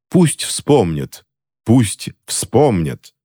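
high, slow incantation; ritual proclamation. A narrator's reading. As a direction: chant the spell slowly. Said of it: "провозгласила Скарлетт".

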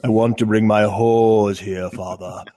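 slow, odd put-on voice begging father; whiny son to Tywin. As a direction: plead with Daddy like a spoiled kid. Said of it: "It's my Tywin".

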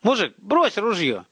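high, slow, pleading command; shouted order. A narrator's reading. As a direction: call out slowly, stressing each word. Boy orders stranger to disarm.

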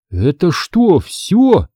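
a startled, rising little gasp of a question; a boy taken aback at how small the town is; gasping surprise. Acted. Boy realizing the town is already over, gasping in surprise. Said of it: "ахнул я".

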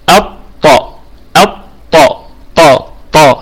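الطاء split in two, with a firm heavy ط; correct strong taa. Shown as a demonstration. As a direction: model طاء as a hard emphatic t without breathy air. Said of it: "ننطق به بشكل صحيح".

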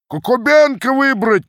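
high, loud shout of a name; crowd shout. A narrator's reading. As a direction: bellow the candidate's name. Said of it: "кричала часть".

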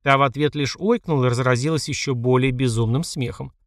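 usual speaking voice

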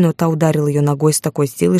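usual speaking voice

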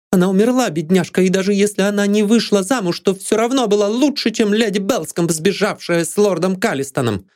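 high, heated defence; passionate. A narrator's reading. Maid Lydia attacks Anne's lady passionately. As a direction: keep the fire going.

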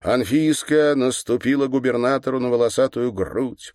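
ordinary delivery, nothing marked

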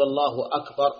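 الله أكبر with the hamza of أكبر cleanly sounded; clear hamza. Shown as a demonstration. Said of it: "ببيان الهمزة".

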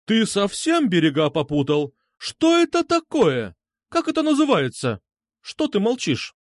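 high, outraged tirade; angry roar. A narrator's reading. Medusa berates Krasnov for silence, roaring. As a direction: roar the questions, climbing very high. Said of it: "взревела Медуза".

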